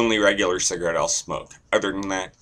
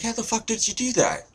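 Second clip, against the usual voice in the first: astonished; faster than usual. Acted. Guy amazed in told joke.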